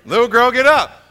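just speak it with authority; firm command. Shown as a demonstration. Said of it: "That's it".

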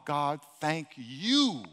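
"you" drawn out slowly and leaned on; stress on you. Shown as a demonstration. Pastor modelling a prayer for the congregation, "you" slow and stressed. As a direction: hit the word "you" in "God, thank you". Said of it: "and emphasize the word "you".

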